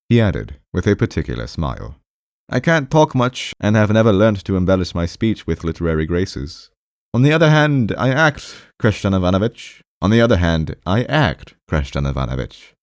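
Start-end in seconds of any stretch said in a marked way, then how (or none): 2.5-12.7 high-pitched voice, halting insistence; awkward, defensive patient. Acted. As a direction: insist on your point in a raised voice.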